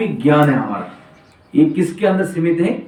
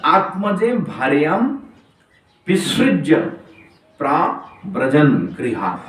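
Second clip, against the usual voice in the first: slow verse recitation; slower than usual. Acted.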